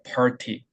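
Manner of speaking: "party" stepping down, T lowest. Shown as a demonstration. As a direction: drop below the R for the T in "party". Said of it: "T는 그 밑에 있습니다". ("party"의 T를 R 밑으로 낮게)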